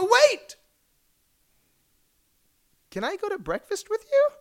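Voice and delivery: high, hurried call after him; desperate plea. Retold or imitated. Chasing Larry King to his car, high desperate plea. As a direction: call out before he leaves.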